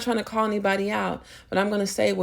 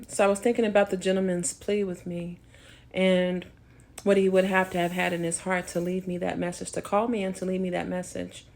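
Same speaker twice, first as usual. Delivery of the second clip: talking while chewing gum; words around a piece of gum. Real, not acted. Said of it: "I'm chewing gum now".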